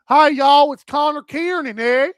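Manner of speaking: lightly put-on Canadian country twang; Canadian country accent. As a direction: greet folks like a country Canadian. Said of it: "That's like the Canadian country accent".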